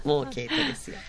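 soft, high mimicry through amusement; quiet teasing imitation; bashful modest guest. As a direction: echo her modest line softly and high. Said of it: "言い方がいつも面白い".

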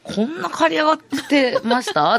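high, startled check on the haircut; asking in disbelief if it was cut this short; surprised question. Real, not acted. A host asks cohosts about her haircut, surprised.

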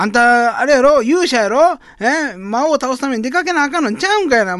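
loud, high Osaka mom nagging; pushy Osaka mother scolding her son; loud nosy osaka auntie. Acted. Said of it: "始まりの街というネタ". (大阪のおばちゃんの大声)

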